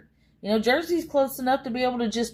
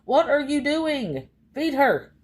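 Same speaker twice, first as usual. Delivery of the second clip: exasperated demand; 6 semitones higher, slower than usual. Retold or imitated. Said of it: "I wanna go".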